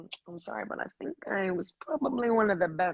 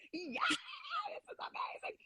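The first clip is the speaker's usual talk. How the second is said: mock fan cheer; 10 dB quieter, slower than usual. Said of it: "they're just shouting".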